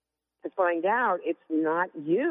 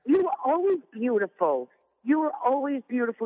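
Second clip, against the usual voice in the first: mock husband; 8 semitones higher than usual. Wife mocking her husband's repeated compliment, hammed-up and doting. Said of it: "But it was like".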